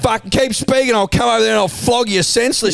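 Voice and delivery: hammed-up angry warning; mock threat. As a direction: rattle off a threat in a worked-up rant.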